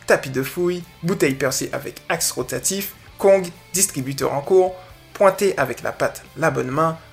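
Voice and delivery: measured read-aloud of a message; deliberate reading voice; reading a post aloud. Acted. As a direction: read the listener's post out, phrase by phrase. Reads out listener's post.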